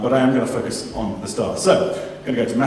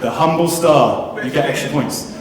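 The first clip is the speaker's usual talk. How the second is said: slow, louder delighted echo; excited praise; 3 semitones higher, 6 dB louder than usual. Real, not acted. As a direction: savour the answer with delight. Teacher echoes answer with praise.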